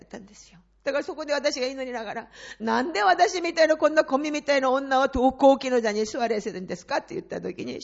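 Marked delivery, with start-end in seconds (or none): 2.6-7.0 1 pleading question. Retold or imitated. Retold plea to God.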